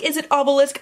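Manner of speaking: "obelisk" as AH-belisk, short open first vowel; pronunciation doubt. Shown as a demonstration. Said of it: "I've never known".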